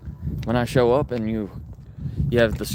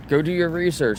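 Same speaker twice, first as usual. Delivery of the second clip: higher, mock indignant; mocking the lady; 9 semitones higher, 4 dB louder than usual. Retelling what the milk lady snapped, mock high voice. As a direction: squeak it back like the upset shopper. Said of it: "Yeah, she freaked out".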